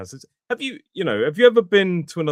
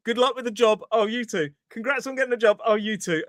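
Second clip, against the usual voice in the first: lightly voiced chirpy politeness, higher; a hint of a cheerful shop voice; mock polite exchange; 8 semitones higher than usual. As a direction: parrot the cheery reply. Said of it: "worst thing ever".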